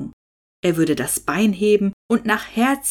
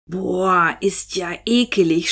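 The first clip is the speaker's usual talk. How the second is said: groaning disgust. A narrator's reading. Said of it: "stöhnte Hinnerk auf einmal".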